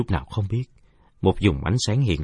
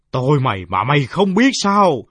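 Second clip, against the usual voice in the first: shrill rat voice; 7 semitones higher, 7 dB louder than usual. Acted. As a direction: threaten like a vengeful rat. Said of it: "vang lên lanh lảnh". (giọng chuột lanh lảnh như gió rít)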